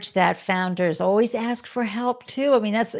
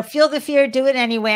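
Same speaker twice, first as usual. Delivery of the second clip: quoted mantra, louder; 4 semitones higher, 6 dB louder than usual. Retold or imitated. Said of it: "you know".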